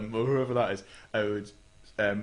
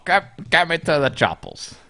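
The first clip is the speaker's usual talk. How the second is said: mock John Wayne; 5 semitones higher, 7 dB louder than usual. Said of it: "Do John Wayne".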